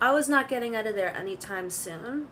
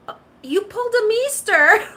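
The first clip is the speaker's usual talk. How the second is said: high and much louder, shouting the joke; laughing tease; 10 semitones higher, 12 dB louder than usual. Retold or imitated. Mom teasing her daughter, loud high laughing shout. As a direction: yell it through the laughter.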